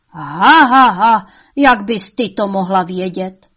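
loud scornful laugh into a sneer; mocking devil laugh. A narrator's reading. Devil laughing at his mother's dream, mocking. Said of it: "smál se čert".

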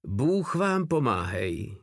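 slow, understated priestly blessing; mumbled. A narrator's reading. Priest blesses the soldiers, lightly mumbled. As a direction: say it slowly, as a murmured blessing. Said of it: "zamumlal kněz".

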